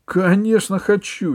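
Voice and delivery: high, loud, drawn-out eagerness; nearly yelling with eagerness; barely contained yell. A narrator's reading. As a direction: burst out eagerly, just short of yelling. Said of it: "едва не завопил Джонни".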